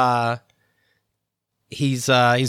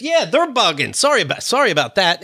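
raised-pitch, chummy fake apology; mock apologetic; 4 semitones higher than usual. Paparazzo face to face with Tom, mock apologetic. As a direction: imitate someone smoothing things over.

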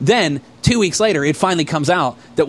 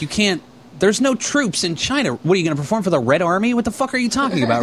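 raised-pitch, incredulous rush; retold exasperation; 5 semitones higher than usual. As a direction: fire off questions in mock disbelief. Exasperated argument retold to friends.

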